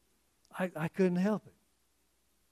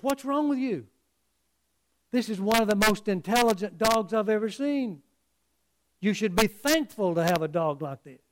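higher-pitched, mildly heated protest; mock indignant telling-off; indignant confrontation; 3 semitones higher than usual. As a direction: act out an outraged butcher taking on the owner. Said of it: "He's ready to fight the guy".

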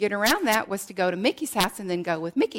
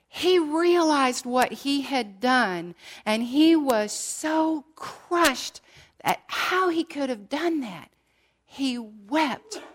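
impassioned preaching; 5 semitones higher, slower than usual. Acted. Preacher builds on Peter's grief.

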